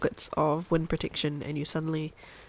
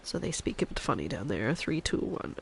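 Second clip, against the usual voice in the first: Chef Maria; 4 dB quieter than usual. Acted. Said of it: "I can go back to speaking like a normal person now".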